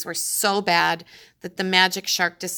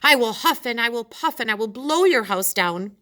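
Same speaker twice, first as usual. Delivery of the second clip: furious threat; 5 semitones higher, 4 dB louder than usual. Acted. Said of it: "furious magic shark".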